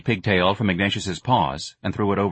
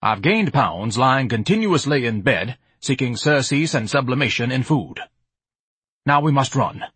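frantic Ignatius; 4 semitones higher than usual. Acted. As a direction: hurry her along, pompous and desperate. Ignatius urges flight.

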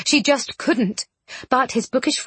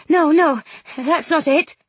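Miss Bronte voice; 5 semitones higher than usual. A narrator's reading.

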